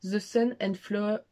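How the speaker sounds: French speaker attempting English, slow; slowly sounding out "The Sun and Flower" with a French English accent; bad English accent. Shown as a demonstration. French vlogger mocking her own English accent, slow. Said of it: "Attention, mon accent anglais incroyable".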